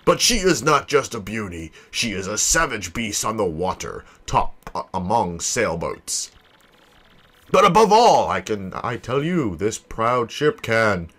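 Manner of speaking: theatrical boast, stretching out the grand phrases; grandiose ship owner. Acted. Vain owner presents his prized ship to visitors, grandiose. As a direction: show off your ship with swooping, savoured emphasis.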